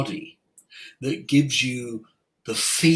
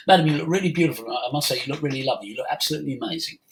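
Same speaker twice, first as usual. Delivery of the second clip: quick, throwaway compliment, fast; offhand fast flattery; rushed compliment; much faster than usual. Retold or imitated. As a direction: rattle it off without meaning it. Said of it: "And then I carried on talking".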